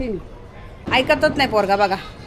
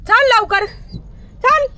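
urging call; 11 semitones higher, slower than usual. Real, not acted. Urging the dog to come.

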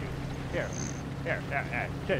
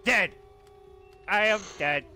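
robot. Pretend. Robot pretends to die.

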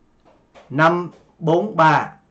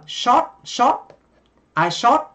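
Vietnamese rounded o in "shot", pitched up; Vietnamese accent; 8 semitones higher, slower than usual. Shown as a demonstration. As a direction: say "shot" like a rising Vietnamese "sót". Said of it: "người Việt chúng ta sẽ phát âm âm O".

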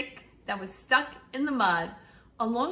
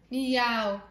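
mild meow. Acted. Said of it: "said the cat".

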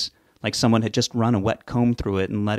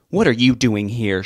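sharp, louder demand; 5 dB louder than usual. Acted. Grieving mother confronts her daughter's friend, demanding. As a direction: confront the intruder head-on. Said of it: "she demanded to know".

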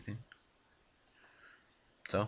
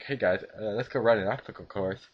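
lightly put-on youtuber host voice; a hint of cheerful channel host; goofy vlog voice; 3 dB louder than usual. Shown as a demonstration. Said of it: "when I'm doing this voice".

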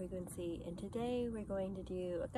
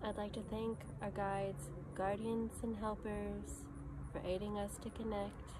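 guided meditation. Acted. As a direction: lead them gently inward, phrase by phrase, leaving space after each.

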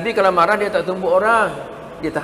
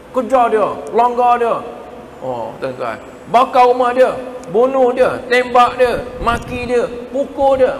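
satan's urging; 4 semitones higher than usual. Acted. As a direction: egg the listener on like a tempter.

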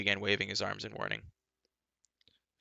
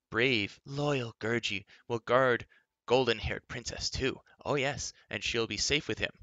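proud little creature; 3 semitones higher, 4 dB louder than usual. A narrator's reading. Gurgi vowing to guard the princess, proud creature voice. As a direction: boast like a loyal little beast.

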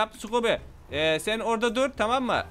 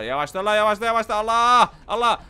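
alarmed shout; 6 dB louder than usual. Real, not acted. Car speeding wildly.

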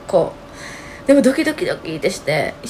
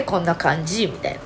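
sick, hoarse speaking voice, as it really is; 4 semitones lower, 7 dB quieter than usual. Real, not acted. Speaker showing her sick voice, real hoarse. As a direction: let the sore throat be heard. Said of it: "声だけこんな感じ".

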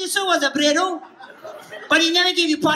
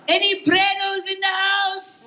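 calling out; 6 semitones higher than usual. Real, not acted. Comedian calling out to audience.

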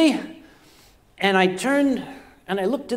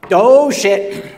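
a sudden louder startled curse; alarmed curse; 6 dB louder than usual. Retold or imitated. Comic alarm at the buzzing in his shower, blurted louder. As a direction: blurt it out, caught off guard.

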